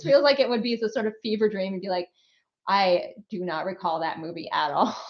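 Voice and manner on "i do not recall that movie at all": mock bemused actor. Imagines actor denying memory of film.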